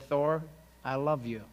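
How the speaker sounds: a lightly voiced tender whisper; retold whisper. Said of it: "I hear that whisper".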